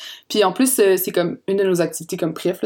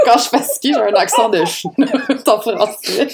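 laughing. Real, not acted. Laughing at her own joke.

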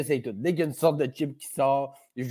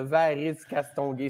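"Varice Castonguay" slowly, syllable by syllable; slow syllable count; slower than usual. Shown as a demonstration. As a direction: count each syllable of the name as you say it. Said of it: "C'est quatre, quatre prises".

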